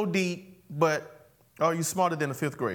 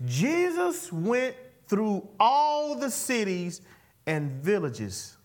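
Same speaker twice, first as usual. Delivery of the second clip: drawn-out preacher reading of scripture; slow scripture reading; 2 semitones higher, slower than usual. Acted. Pastor reading the verse slowly to the church. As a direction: read the verse slowly, savouring it.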